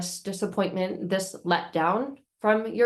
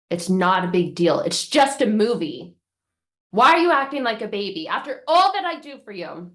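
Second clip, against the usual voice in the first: louder, harsh dismissive scolding; scolding parent; 6 dB louder than usual. Acted. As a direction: tell the child off for crying. Parent scolding crying child.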